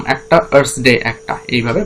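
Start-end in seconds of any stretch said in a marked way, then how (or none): 0.5-1.0 "earth's day" as one separate foot, weight on "day"; metrical foot. Shown as a demonstration. Teacher counting five feet for students, separated closing chunk. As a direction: mark off "earth's day" as the last counted unit. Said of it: "সেই পাঁচটা দলে ভাগ হয়ে যাচ্ছে".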